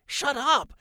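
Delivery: put-on outraged boy yelling shut up; indignant yell. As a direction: bark it back offended. Owen protests being mocked.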